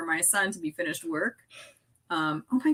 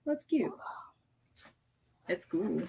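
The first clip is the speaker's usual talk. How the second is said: whispered aside; 8 dB quieter than usual. Real, not acted. Whispered remark.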